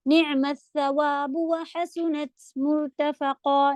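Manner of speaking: slow Quranic recitation. Shown as a demonstration. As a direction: recite it slowly. Models the verse recitation. (آہستہ تلاوت)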